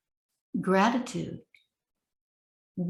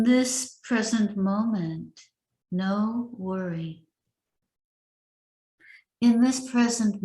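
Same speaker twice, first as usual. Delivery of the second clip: recited as a list, each line opening with a lift; measured recitation of principles; reading the principles. Shown as a demonstration. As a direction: read the statements aloud steadily. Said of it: "So I'm going to read them to you".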